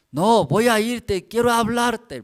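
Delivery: put-on loud, high, dragged-out drunken insistence; slow drunk shout. Drunk brother yelling at the pastor that he's coming over, slow and loud. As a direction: stretch every word like a stubborn drunk.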